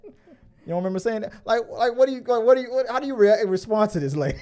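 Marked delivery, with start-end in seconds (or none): none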